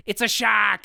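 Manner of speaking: put-on excited kid with a high, loud New England accent; imitated Massachusetts accent; thick New England accent. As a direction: shout it like a Boston boy. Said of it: "the thickest New England accent".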